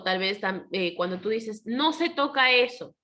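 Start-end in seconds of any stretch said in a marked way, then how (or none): 1.6-2.9 higher-pitched mock scolding; prohibition. Shown as a demonstration. Teacher demonstrates forbidding something, mildly prohibiting. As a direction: forbid it as a classroom example. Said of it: "le prohíbes algo según tu expresión".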